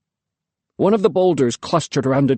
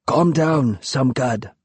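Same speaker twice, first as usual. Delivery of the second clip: said kindly; slower than usual. A narrator's reading. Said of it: "Tambul said kindly".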